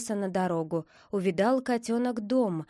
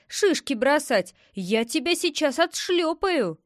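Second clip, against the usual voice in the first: mild angry scolding; 5 semitones higher, 3 dB louder than usual. A narrator's reading. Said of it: "закричала белка".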